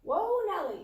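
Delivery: high, loud mock alarm; mock surprise. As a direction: pull them up short in playful alarm. Parent halting a rude child.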